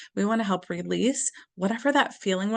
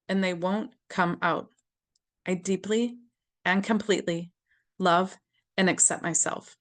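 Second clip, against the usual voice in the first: tapping affirmation. Shown as a demonstration. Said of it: "you just have to copy me".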